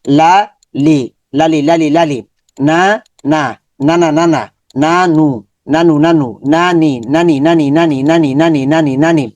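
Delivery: syllables said apart, then joined into কালি repeated evenly; syllable blending drill. Shown as a demonstration. Teacher shows students how to join syllables. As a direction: build কা and লি into কালি for the class. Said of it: "এভাবে সবগুলো হরফ".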